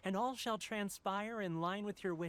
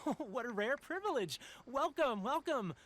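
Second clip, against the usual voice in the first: delighted welcome; 5 semitones higher than usual. Acted. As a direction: greet her like an honoured guest. Merchant greets surprise noble visitor.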